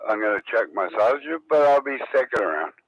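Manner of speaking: fast, toothless mushy words; speaking with no teeth in; talking with no teeth. Real, not acted. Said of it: "it's hard to talk with no teeth".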